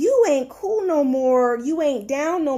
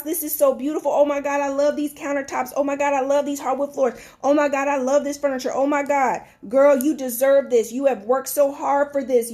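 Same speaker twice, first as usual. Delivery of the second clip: gushing praise; faster than usual. Retold or imitated. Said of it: "I'm that friend".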